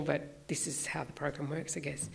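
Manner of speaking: getting emotional. Real, not acted. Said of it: "I don't know why I'm getting emotional".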